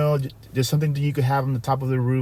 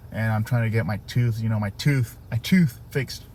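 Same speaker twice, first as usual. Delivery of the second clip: words shaped around a retainer; slightly slurred through a retainer; wearing a retainer; 3 semitones lower than usual. Real, not acted. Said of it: "if you hear me kinda talking weird".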